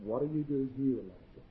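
low, very soft question, fading on the name; still small voice. Acted. God speaks to Elijah at the second call, hushed. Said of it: "it was a voice that said unto him".

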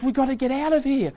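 acted panic, high and urgent; high-pitched, stressed-out pleading. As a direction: play a frantic warning to family. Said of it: "he's stressed and he says".

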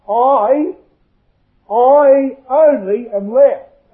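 I drawn out high, with a pause after it; emphatic complaint. Acted. Elijah answers God, stressing I in complaint. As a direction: hold the word I long and high, then slowly finish.

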